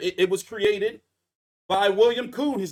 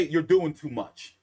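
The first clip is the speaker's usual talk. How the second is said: slang demo; 4 semitones lower, 4 dB louder, slower than usual. Shown as a demonstration. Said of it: "we would say".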